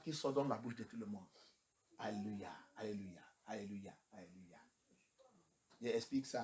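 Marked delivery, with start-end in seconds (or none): 2.0-4.6 softer and softer, fading to a whisper; murmured alléluia. Retold or imitated. Preacher mimics the congregation's mechanical alléluia, whispered. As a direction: mumble it like a crowd on autopilot.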